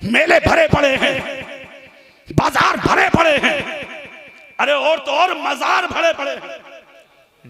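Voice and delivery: forceful, echoing sermon delivery; fiery preaching. Real, not acted. Preacher to congregation about crowded fairs and bazaars, fiery preaching. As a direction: scold the congregation in pointed bursts.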